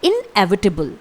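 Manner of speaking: inevitable said as in-EV-i-ta-bul, clearly; inevitable, each syllable crisp; pronunciation model. Shown as a demonstration. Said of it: "इसका pronunciation एक बार फिर से सुन लीजिए".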